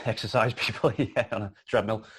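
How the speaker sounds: laughing through the joke. Real, not acted. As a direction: chuckle through the words.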